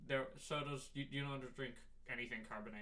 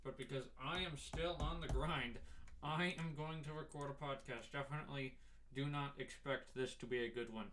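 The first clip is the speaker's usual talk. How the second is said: talking with gauze in the mouth; with a sore jaw. Real, not acted. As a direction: speak through a numb, swollen mouth. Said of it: "noticing something weird about me".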